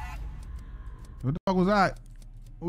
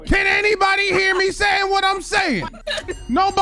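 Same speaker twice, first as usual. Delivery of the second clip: raised call into the void; 6 semitones higher than usual. Real, not acted. Streamer calling out to see if anyone can hear him, raised voice. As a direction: shout to see if anyone hears.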